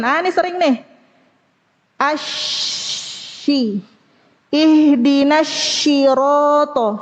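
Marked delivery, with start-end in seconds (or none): 2.0-7.0 "syirata" with a long hushing sh in place of heavy s; sod as shin. Shown as a demonstration. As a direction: turn the s into sh in "syirata". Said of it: "merubah sod menjadi shin". ("syirata" dengan sod berubah jadi syin)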